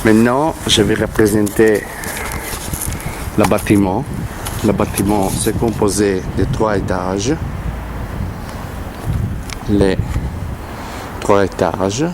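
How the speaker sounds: French with a real Italian accent; non-native speaker, Italian accent. Real, not acted. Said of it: "je suis italien et encore".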